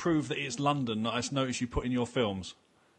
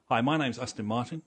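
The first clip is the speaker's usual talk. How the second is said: a pushy salesman selling a policy; insurance salesman. Pretend. Mocking a car name as an insurance salesman, quick sales pitch. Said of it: "it sounds like an insurance salesman".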